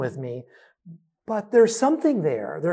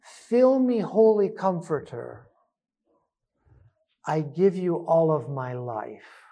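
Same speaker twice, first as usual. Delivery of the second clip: slow breath prayer; 2 semitones lower than usual. Shown as a demonstration. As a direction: breathe the phrase in and out. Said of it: "So when we breathe in".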